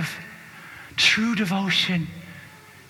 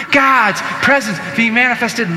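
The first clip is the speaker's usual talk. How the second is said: louder each time, preacher chant; building call; 4 semitones higher, 6 dB louder than usual. Shown as a demonstration. Preacher leading congregation in a rising call, louder. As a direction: push it out to the crowd. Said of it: "Say it with me three times".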